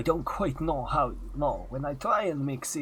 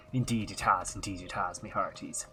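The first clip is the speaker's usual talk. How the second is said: put-on Transylvanian pirate accent; 2 semitones lower, 4 dB quieter than usual. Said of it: "Transylvania entered the chat".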